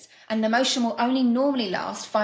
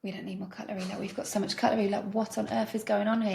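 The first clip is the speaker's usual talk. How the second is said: hushed complaint; 5 dB quieter than usual. Pretend. Whispering to each other at table.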